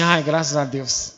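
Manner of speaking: husband's hushed, drawn-out thank God; relieved sigh. Retold or imitated. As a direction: breathe the words out in mock relief. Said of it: "Aí eu falo assim".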